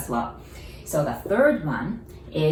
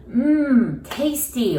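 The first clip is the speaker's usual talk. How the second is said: savoring mmm; 6 semitones higher, 4 dB louder, much slower than usual. Pretend. Savoring food while eating.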